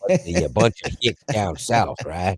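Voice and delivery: put-on down-south accent; Southern US accent. Trading regional jabs with the co-host, Southern accent. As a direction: answer back as a Southerner. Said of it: "from somewhere way down".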